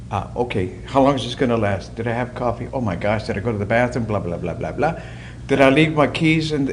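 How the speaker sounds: lightly acted stream of idle thoughts; chattering inner monologue. Imitating the mind's monkeys before meditation, lightly chattering. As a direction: run the stray worries together, half to yourself. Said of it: "the chattering monkeys are going up there".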